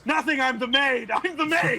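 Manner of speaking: high, laughing panic, played for comedy; flustered denial. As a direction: insist on the cover story, pitch climbing. Caught out, frantic cover-up.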